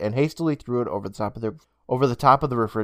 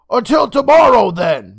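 higher, louder motherly call; Miss Toll calling; 12 semitones higher, 11 dB louder than usual. Acted. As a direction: call a cheerful goodbye at the door. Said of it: "Miss Toll called".

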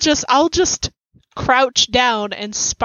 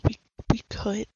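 whisper; 9 dB quieter than usual. Acted. Keeping quiet by the door.

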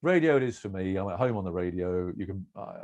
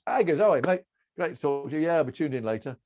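a chirpy, higher, louder cabbie greeting; cheery cabbie; 5 semitones higher, 3 dB louder than usual. Retold or imitated. Cabbie recognising the radio man, chirpy and loud. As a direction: greet him like a delighted fan.

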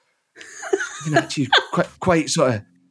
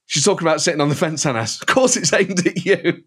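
Douglas Ross impression. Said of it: "Douglas Ross went".

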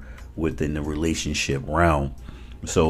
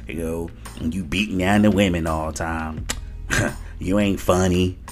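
man doing a woman's voice. Retold or imitated. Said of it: "let me do the woman voice again".

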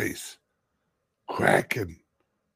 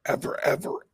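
breathy half-whispered ever, ever; hushed repeat; 4 semitones higher, much faster than usual. Real, not acted. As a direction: whisper the words for emphasis. Repeats ever, first take hushed.

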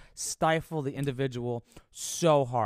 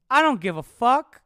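loud, higher don't-care yell; defiant shout; 9 semitones higher, 10 dB louder than usual. Real, not acted. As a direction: throw it out loud.

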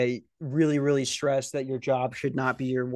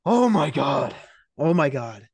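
louder exasperated oh my God; exasperated groan; 5 dB louder than usual. Retold or imitated. Stuck in coworker's lecture, loud exasperated despair. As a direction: plead to the heavens in despair. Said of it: "I'm going".

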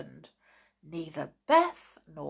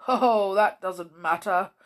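gentle bear person; 5 dB louder than usual. Acted. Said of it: "said the father bear".

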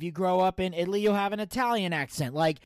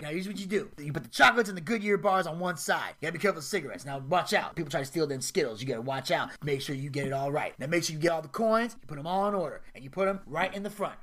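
Smokey. Retold or imitated. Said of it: "And Smokey's his boss".

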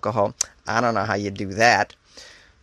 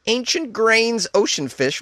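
mock posh savoring; 9 semitones higher, slower than usual. Mocking snobby pet food name.

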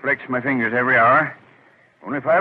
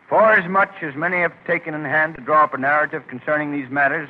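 reciting scripture; 2 semitones higher, 3 dB louder than usual. Acted. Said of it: "I can quote it from memory".

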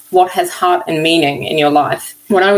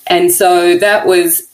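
tearful; much slower than usual. Real, not acted. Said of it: "I'm crying here".

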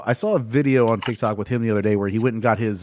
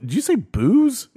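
imitating Bubs; 11 semitones higher, slower than usual. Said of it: "Bub's like".

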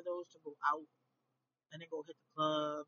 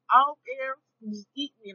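pushy food voice; 7 semitones higher, 16 dB louder than usual. Pretend. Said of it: "And it was like".

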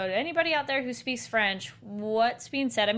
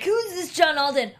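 higher, louder mock-tough challenge; tough kid; 6 semitones higher, 4 dB louder than usual. The boy asking after his hero, hammed-up tough. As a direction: play a kid puffing himself up. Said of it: "being all tough".

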